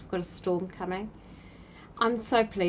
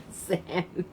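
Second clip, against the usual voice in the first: real laugh. Real, not acted. Laughing at a viewer's comment.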